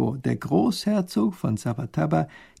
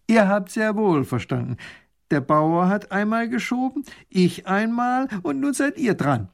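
stern duke; 8 semitones higher than usual. Acted. Duke insists to minister.

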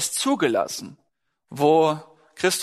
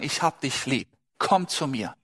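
lower, gently coaxing voice; low, tender appeal; tender divine plea; 4 semitones lower, 3 dB quieter than usual. Acted. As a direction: quietly invite someone closer, as a loving God. Voices God lovingly calling a person.

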